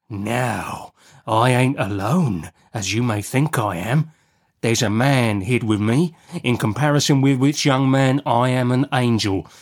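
measured, confiding convict menace; menacing convict. Acted. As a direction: drop back from the outburst to a sly warning.

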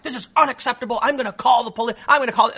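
high, hammed-up outrage; whiny mock indignation; mock freak-out. Mimicking the protester threatening to call the police, hammed-up outrage. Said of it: "this woman freaked out".

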